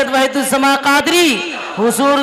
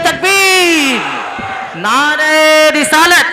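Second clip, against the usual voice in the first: slogan call; 2 semitones higher than usual. Real, not acted. Slogan leader calls to the crowd.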